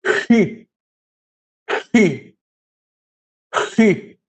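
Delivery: Alfa said slowly three times, each with a falling tune; careful repetition. Shown as a demonstration. Teacher modelling the Greek letter names for the class. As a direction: model each syllable of Alfa for students to copy. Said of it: "Eu vou falar três vezes".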